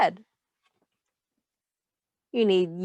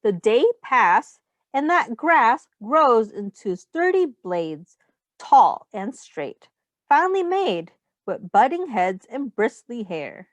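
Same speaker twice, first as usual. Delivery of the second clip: put-on reading to children. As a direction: read the rhyme aloud to the class. Reads picture book to children.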